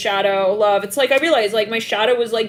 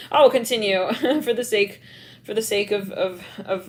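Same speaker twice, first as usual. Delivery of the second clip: usual speaking voice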